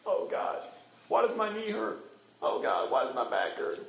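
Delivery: soft, grumbling prayer; complaining. Acted. Believer griping to God about sore knee and back, complaining. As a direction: moan weakly to God about aches. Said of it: "the next moment we'll be complaining".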